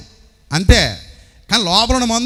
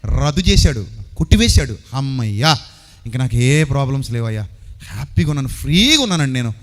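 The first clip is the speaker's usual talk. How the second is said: lower, relieved "అమ్మయ్యా"; happy relief, voiced lower; relieved sigh of joy; 5 semitones lower than usual. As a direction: breathe out relief. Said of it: "అది నాకు ఎప్పుడు ఉంటుంది".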